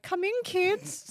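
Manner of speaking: creepy voice. Retold or imitated. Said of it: "that person that's like".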